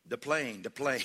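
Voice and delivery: lightly imitated Tattoo hollering; a mild mock call of the plane; Tattoo's holler. Preacher imitates Tattoo hollering to the congregation, mild mock holler. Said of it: "Say it like Tattoo when he used to holler".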